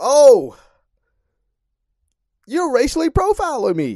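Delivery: mock very high, swooping, indignant, angry delivery. Retelling a man's reply to the registration lady: imitating someone getting mad. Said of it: "he gets all mad".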